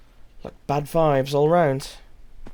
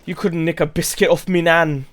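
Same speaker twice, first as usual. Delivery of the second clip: louder cheeky British slang; British accent; 2 semitones higher, 5 dB louder than usual. Retold or imitated. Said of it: "That's one I got from a comedian".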